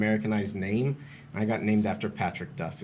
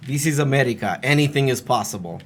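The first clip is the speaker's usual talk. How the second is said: put-on Romanian accent; 3 semitones higher, 6 dB louder than usual. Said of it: "I put on a Romanian accent".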